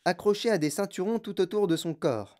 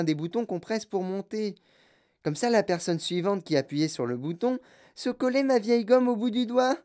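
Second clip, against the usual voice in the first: put-on bratty girl voice; 3 semitones higher than usual. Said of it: "Elle parlait très vite et très fort".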